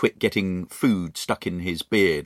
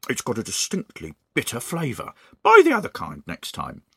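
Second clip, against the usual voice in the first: Mister Twit. Acted. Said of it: "Mister Twit said".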